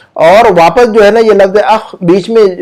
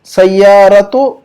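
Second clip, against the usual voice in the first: slow word drill; 2 semitones higher, much slower than usual. Shown as a demonstration. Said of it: "अब ये देखिएगा".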